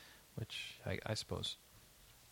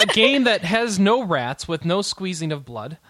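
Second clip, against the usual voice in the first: laughing; 5 semitones higher, 7 dB louder, slower than usual. Real, not acted. Laughs while changing topic.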